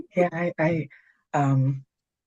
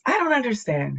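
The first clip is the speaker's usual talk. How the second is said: mock confusion; 10 semitones higher than usual. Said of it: "my favorite thing to say is".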